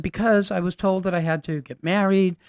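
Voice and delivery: a hint of the frail old woman. Lena explaining her duties, lightly voiced old lady.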